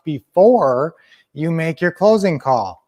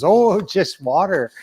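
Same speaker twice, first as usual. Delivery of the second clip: lightly voiced priest, higher and slow; Irish priest; 4 semitones higher, slower than usual. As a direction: play the innocent priest, drawn-out "Oh". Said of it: "it's an Irish priest".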